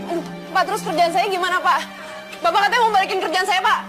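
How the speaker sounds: half-laughing desperate begging; laughing plea. Acted. Begs boss for her job back.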